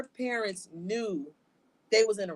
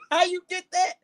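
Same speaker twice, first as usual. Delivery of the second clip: imitating mom; 10 semitones higher, 5 dB louder than usual. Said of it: "She said".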